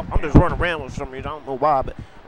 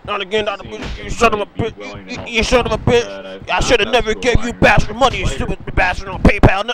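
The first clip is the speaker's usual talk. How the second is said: tag; 5 semitones higher than usual. Pretend. Cursing Doctor Pizza in play.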